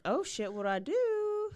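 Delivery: high-pitched, panicky wail; mock panic. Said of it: "like, panicking".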